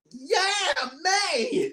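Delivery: a quick cheer for May. Retold or imitated. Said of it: "I was like".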